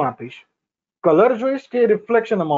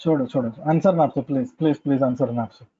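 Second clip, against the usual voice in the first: mock pleading; 5 semitones lower, faster than usual. Teacher begs class to stop guessing.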